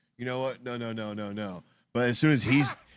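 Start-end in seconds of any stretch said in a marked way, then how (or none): 0.2-1.6 put-on flustered, frantic, panicked pleading, losing composure. Describing a video of a rider stuck in a tube: imitating someone panicking. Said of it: "he just panics".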